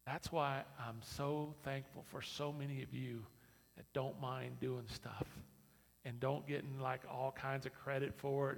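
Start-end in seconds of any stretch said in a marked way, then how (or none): none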